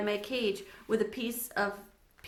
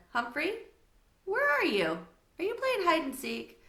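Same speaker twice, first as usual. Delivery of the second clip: calling out; 8 semitones higher than usual. Acted. Sophie calling for hamster.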